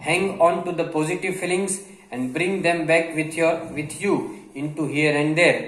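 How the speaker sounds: reads the English line very slowly, word by word; slow dictation reading. Acted. Teacher reading a passage slowly to Gujarati learners. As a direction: spell it out slowly for the students.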